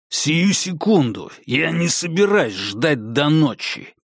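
slow, impatient menace; angry growl. Acted. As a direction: snarl the order. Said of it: "прорычал Конгдон". (злое рычание)

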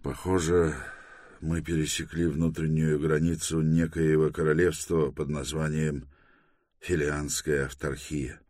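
understated, resigned calm; hopeless calm. Acted. Торрен reports crossing into an unknown kingdom, hopeless calm. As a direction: report it evenly, mildly resigned. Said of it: "сообщил с безнадёжным спокойствием".

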